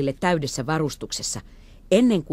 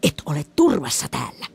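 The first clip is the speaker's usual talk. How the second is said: put-on old man warning. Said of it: "äyskähti käskevästi".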